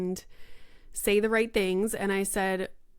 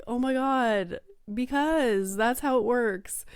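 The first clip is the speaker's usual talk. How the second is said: exasperated parent; 4 semitones higher than usual. Retold or imitated. Exasperated parent answering child's questions.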